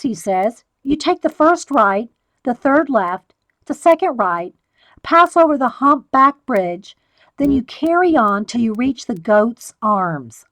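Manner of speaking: measured storybook reading, in a reading mood; reading aloud. Acted. Reading the book to the viewers in a story voice. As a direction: read it to your viewers like a bedtime tale.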